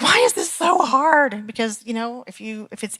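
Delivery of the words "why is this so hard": higher, slow, put-upon whine; mock a frustrated client's moaning; whiny complaint. Leader imitating clients complaining about emotion work, slow whine. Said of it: "And they're like".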